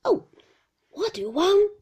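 put-on high, loud old man's whine; fierce old shopkeeper's loud, high wail. A narrator's reading. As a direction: whine it fiercely, rising at the end. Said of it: "in a fierce, monotonous whine".

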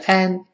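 "an" with a flat "æ" vowel; wrong vowel. Shown as a demonstration. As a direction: demonstrate the wrong "an". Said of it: "也不是an".

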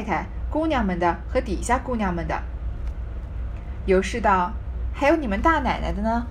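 measured reading of a classic novel, phrase by phrase; story narration. Acted. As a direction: read the old text aloud with deliberate pauses. Reads the novel's text aloud.

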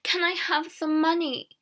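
high-pitched begging call. A narrator's reading. Hungry girl after the silent peddler, calling. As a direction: call out the request insistently. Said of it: "Alison called again".

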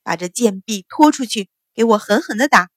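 mild mock roar of an enraged mistress; hammed-down furious bellow; furious shout. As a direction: order the beating in a rage. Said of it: "秦氏暴怒的声音大喝".

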